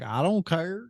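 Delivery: hint of country Southern accent; Southern country guy. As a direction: mimic a Southern dude. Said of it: "he's the one as the country guy, the Southern dude".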